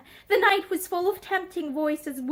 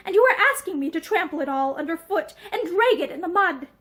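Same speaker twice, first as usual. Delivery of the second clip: labored with emotion. Acted. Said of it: "slow and labored with emotion".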